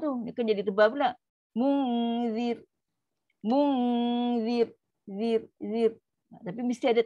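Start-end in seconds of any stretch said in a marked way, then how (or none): 1.5-6.0 long hummed "Mun", thin "zir" in "Munzir". Shown as a demonstration. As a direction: keep the r of "Zir" light, tongue unarched. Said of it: "so ra, ra dia nipis".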